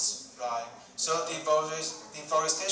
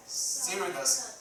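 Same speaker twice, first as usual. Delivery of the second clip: slow reread; 2 semitones higher, slower than usual. Shown as a demonstration. Teacher repeating the word for students, slowly with a rise. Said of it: "I will read it very slow".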